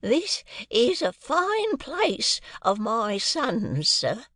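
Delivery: put-on high, slow, quavering old man. A narrator's reading. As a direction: cry out like a proud very old man. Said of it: "cried the old man".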